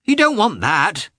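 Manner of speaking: put-on high, loud child's voice; little boy bossing his mother fondly; young boy. A narrator's reading. Boy removing mother's bonnet.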